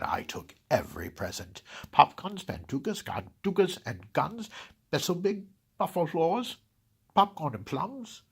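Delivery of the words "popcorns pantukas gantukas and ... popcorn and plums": high, loud excited listing; giddy inventory of stolen toys; gleeful greedy list. Acted. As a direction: rattle off the loot with glee.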